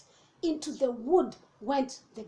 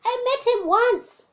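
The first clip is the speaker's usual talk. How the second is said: gruffalo voice; 10 semitones higher, 6 dB louder than usual. Acted. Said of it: "said Gruffalo".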